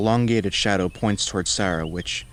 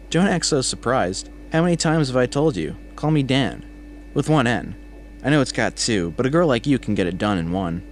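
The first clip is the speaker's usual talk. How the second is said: higher-pitched, jokily indignant coworker; teasing coworker; 5 semitones higher than usual. A narrator's reading. Coworker winks and jokes with Sarah about his name, teasing. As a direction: tease her with mock indignation, pitched up at first.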